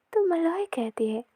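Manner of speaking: ordinary delivery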